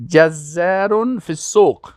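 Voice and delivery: جزار فی السوق said slowly and evenly; careful pronunciation. Shown as a demonstration. Teacher drills جزار فی السوق for students, slow and clear. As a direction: model جزار فی السوق for learners. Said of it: "تلفظ درست بکنین".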